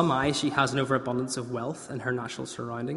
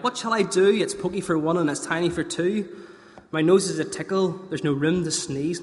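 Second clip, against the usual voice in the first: put-on higher, louder flustered old woman; fretful old lady; 3 semitones higher, 3 dB louder than usual. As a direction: wail it like a fussy granny.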